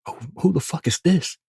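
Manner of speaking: spooked who-is-that; startled. Retold or imitated. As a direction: jump at a knock at night. Startled by knock at night.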